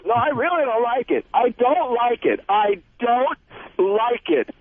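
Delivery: high, whiny imitation of her crying; slow, pleading wail, mimicking her; mock crying wife. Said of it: "And she starts crying".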